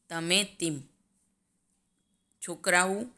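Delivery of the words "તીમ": તીમ with an "ee" vowel; dialect vowel shift. Shown as a demonstration. Teacher showing students Sorathi speech, તીમ said "teem". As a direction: raise the "e" to "ee" in તીમ. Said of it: "એનો ઉચ્ચાર ઈ".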